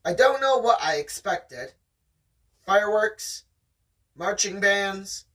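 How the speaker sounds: steady read-aloud storytelling voice; story narration. Acted. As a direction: read it like the audiobook. Reading the novel aloud.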